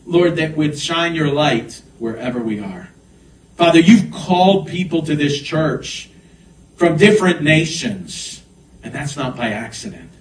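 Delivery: earnest praying voice, easing down at phrase ends; prayer settling. Real, not acted. Pastor thanks Father for church's assignment, prayerfully. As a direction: bring the prayer gently down from its peak.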